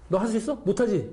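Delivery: high-pitched mocking challenge; sarcastic taunt. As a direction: tease with a question, then answer it yourself. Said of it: "읽었어요".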